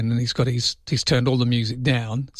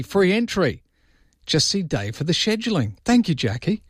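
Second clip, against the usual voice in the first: lively, higher-pitched read-out; bubbly higher voice passing on a message; animated; 7 semitones higher than usual. Real, not acted. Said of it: "that's the most animated you've been in ages".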